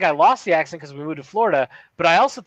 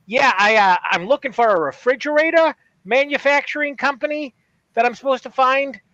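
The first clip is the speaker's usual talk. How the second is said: imitated stranger; 7 semitones higher than usual. Retelling the stranger's hesitant question.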